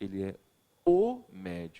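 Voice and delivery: main stress on the article o. Explaining how emphasis moves from the noun to the article in oral argument: stress on "o". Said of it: "o deslocamento de termo principal saísse do substantivo médico e passasse imediatamente à perspectiva do artigo".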